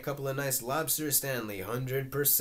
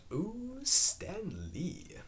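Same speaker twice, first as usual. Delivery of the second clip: high drawn-out "ooh", then the name; admiring; 7 semitones higher, much slower than usual. Acted. Happy eyeing the girl to Stanley, admiring coo. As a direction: coo it high, taken with what is seen. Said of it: "staring directly at her profile".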